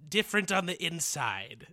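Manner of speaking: slow, drawn-out robot troll guard; lightly voiced troll robot, slowed right down. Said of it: "you could be this little robot troll".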